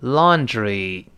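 laundry read again for students to copy; 跟读示范 laundry; model word repeated. Shown as a demonstration. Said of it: "再来一遍". (再示范一遍 laundry)

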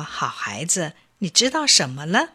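put-on calm mom asking her child, soft and low; gentle mother. Mother bunny answers gently.

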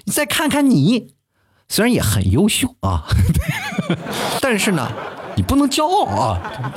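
hammed-up parent lecture; nagging parent. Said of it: "老是跟别的孩子比较". (高声拖长模仿唠叨父母)

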